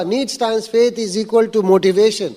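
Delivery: slow, measured repeat of the formula; slow classroom recital. Shown as a demonstration. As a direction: drill it in slowly for the room.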